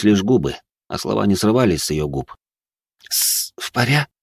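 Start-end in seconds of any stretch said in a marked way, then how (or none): 3.1-4.1 broken words heard through water; distant and muffled, slow; muffled underwater voice. A narrator's reading. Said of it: "как будто бы из-под глубокой толщи воды".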